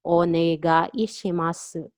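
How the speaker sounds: "Onegaishimasu" drawn out syllable by syllable; "Onegaishimasu" slow and carefully separated; slowed-down model. Shown as a demonstration. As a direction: say "Onegaishimasu" slowly for learners. Teacher breaks phrase up slowly.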